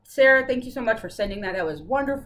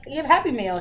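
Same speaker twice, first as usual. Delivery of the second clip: teasing announcement; 5 semitones higher, 6 dB louder, faster than usual. Retold or imitated. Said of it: "I'm like".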